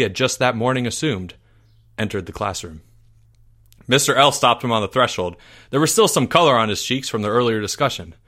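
earnest audiobook telling of a crisis of belief; mock-epic storyteller; dramatic story narration. A narrator's reading. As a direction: build the drama, then let it fall.

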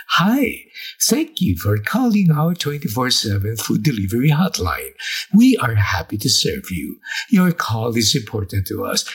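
lightly voiced recorded greeting; phone menu voice. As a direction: read it like an answering machine. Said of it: "the pre-programmed voice from the answering machine says".

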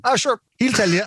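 high, modest Irish shrug; modest brush-off. Retold or imitated. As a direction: wave it away lightly. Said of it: "sitting there going".

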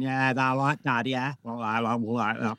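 low, light Yorkshire voice; light Yorkshire accent. Acted. Actor showing his radio character's low, light Yorkshire accent. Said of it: "I always had a sort of light accent".

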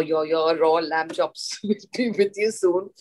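giggling nervously through the words; nervous giggle. Retold or imitated. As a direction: stammer it out slowly, half laughing. Nervous waitress serving raw lamb.

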